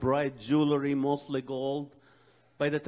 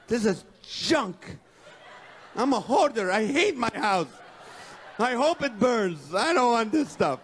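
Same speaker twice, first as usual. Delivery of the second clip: frantic self-rant; 4 semitones higher than usual. Retold or imitated. Homeowner with thirty minutes to flee a fire, frantic. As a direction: rage at the house while the clock runs out.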